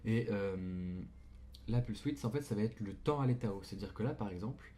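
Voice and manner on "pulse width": "pulse width" said with a French accent; French speaker's rough English pronunciation; accent français en anglais. Real, not acted. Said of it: "mon accent anglais est dégueulasse". (accent français approximatif)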